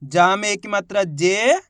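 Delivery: drawn-out syllable by syllable reading; teacher spells out the first letter slowly; slow sounding out. Shown as a demonstration. Teacher shows how to read a word, slowly. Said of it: "एक बार फिर से देखिए".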